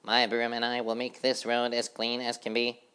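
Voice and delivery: high busy housefly chanting; sing-song of a tidy little fly. A narrator's reading. Housefly sweeping the road, chanting brightly and high.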